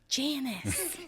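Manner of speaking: soft, hushed name; whisper. Retold or imitated. Phoebe reminding Ross of the name, softly hushed. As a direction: mouth it quietly as a hint. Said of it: "she whispers".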